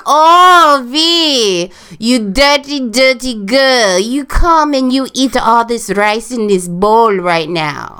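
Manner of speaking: high, loud scolding in a mock Asian accent. Showing off to co-host, mock Asian accent. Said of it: "once we get talking about some Asian shit".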